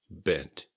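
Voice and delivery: "Bent." ending on a released T; a careful "Bent." with its T sounded; final T kept. Shown as a demonstration. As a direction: finish "Bent." on an audible T. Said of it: "keep the T at the end".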